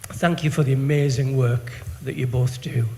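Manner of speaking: moved, holding back tears. Real, not acted. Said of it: "I'm gonna get emotional".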